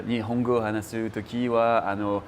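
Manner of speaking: Japanese spoken with a French accent. Shown as a demonstration. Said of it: "but in Japanese, it's the same".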